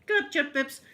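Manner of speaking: high, loud angry challenge; brother-in-law loudly confronting her; protective loud demand. Retold or imitated. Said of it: "And he went".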